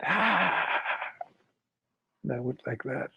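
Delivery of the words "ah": short, higher-pitched mock scream; retold scream. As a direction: imitate a scream without full volume. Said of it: "I screamed".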